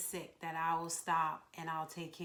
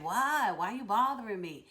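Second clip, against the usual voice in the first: imitated irritated reply, raised in pitch; mock irritation; 3 semitones higher, 5 dB louder than usual. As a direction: act out being bothered by someone. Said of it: "didn't get annoyed and irritated".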